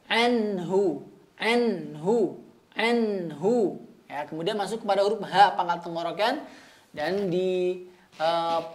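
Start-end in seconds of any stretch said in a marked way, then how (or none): 0.1-3.9 anhu with moderate breath on the nun; tajwid demo. Shown as a demonstration. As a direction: repeat anhu, neither too little nor too much breath. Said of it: "tidak kekurangan dan juga tidak berlebihan". (anhu dengan nafas pertengahan)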